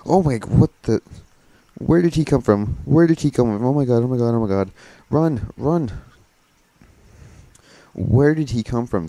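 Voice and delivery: high loud frightened shrieks; panicked screaming. Real, not acted. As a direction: freak out at the jump scare. Jump scare from murderer.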